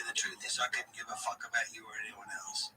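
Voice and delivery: a cold, dismissive whisper; whispered aside. Real, not acted. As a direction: breathe it out under your voice.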